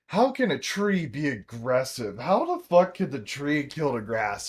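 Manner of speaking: loud, emphatic mock disbelief; imitated incredulity. Mother disputing her child about pine trees, imitated incredulous outburst. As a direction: play a mother scoffing at a silly claim.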